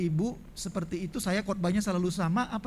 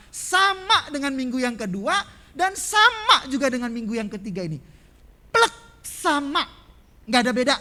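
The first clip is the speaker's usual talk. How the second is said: fiery preaching; 9 semitones higher, 8 dB louder than usual. Acted. Preacher thunders to the congregation about the repeated sermon, loud and high. Preacher builds to full force.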